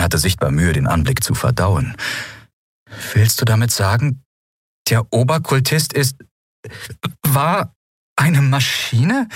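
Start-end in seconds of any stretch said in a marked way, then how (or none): 3.1-9.3 ungläubig, höher, zum Ende gedehnt; verdutzt. Acted. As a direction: stockend vor Staunen fragen. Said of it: "fragte sie verdutzt". (Lien fragt fassungslos nach dem Oberkultisten)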